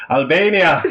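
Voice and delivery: lightly faked Albanian accent, amused; put-on Albanian accent. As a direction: fake being Albanian, barely holding back laughter. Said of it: "I can't put this on".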